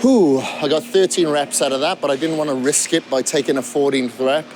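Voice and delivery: winded after a heavy set; talking while catching breath. Real, not acted. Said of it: "I'm out of breath now".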